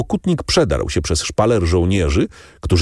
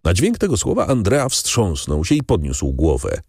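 ordinary talk, nothing marked

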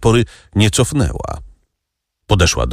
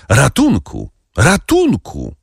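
rising frantic cry for help, second call much higher; 5 semitones higher, slower than usual. A narrator's reading. Nurse screaming for help from the doorway, frantic. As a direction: nurse crying out for help down the stairs. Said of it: "wołając".

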